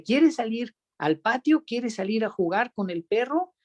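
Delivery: put-on lifted, sing-song question to a baby; mother talking to baby. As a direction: coax the baby like a mother would.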